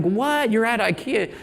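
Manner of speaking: high, incredulous mock outburst; retold anger. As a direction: echo her angry disbelief, pitched high. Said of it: "she was really angry".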